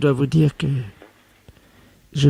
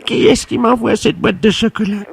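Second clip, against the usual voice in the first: breathless excitement; 7 semitones higher than usual. Acted. Secretary asks who sent chocolates.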